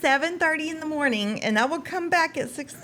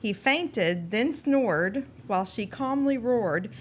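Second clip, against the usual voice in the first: limerick reading; slower than usual. Acted. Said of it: "A limerick".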